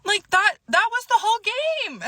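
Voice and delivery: high-pitched squeal of disbelief, breaking into a laugh; incredulous laughter. Real, not acted. Breaks up over his reaction.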